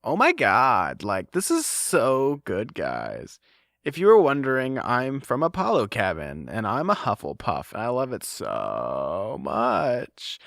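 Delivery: put-on gushing Valley Girl, drawn out and slow; slow, gooey Valley Girl gush. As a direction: read it like a dreamy Valley Girl. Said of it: "in, like, a Valley Girl voice".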